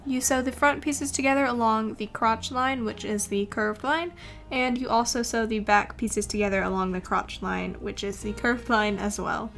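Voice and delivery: soft, even tutorial voiceover; calm how-to narration over music. Acted.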